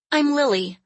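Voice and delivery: put-on high child's voice, tentative; little girl. A narrator's reading. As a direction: answer as a small, timid girl. Frightened little girl answers the man.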